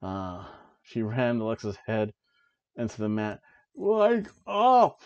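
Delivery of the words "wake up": high, loud imitation of a Scottish yell; mock Scottish shout. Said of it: "I can't even do the accent the way she does it".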